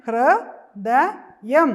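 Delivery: ഹൃദയം drawn out very slowly and loud; teacher spells out ഹൃദയം slowly for the class; slow sounding out. Shown as a demonstration. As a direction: stretch every syllable of ഹൃദയം. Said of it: "എങ്ങനെയാ വായിക്കുന്നേ".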